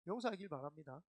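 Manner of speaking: laughing correction. Real, not acted.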